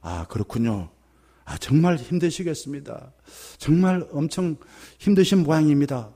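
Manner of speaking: gentle, understated sympathy; empathetic. Shown as a demonstration. Pastor showing how to answer suffering elders, gently empathetic. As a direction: start low and soft, acknowledging their hardship. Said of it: "이렇게 이야기해야죠".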